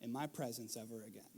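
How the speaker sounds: a hint of teary father; emotional plea. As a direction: plead gently, near tears. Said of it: "I was emotional".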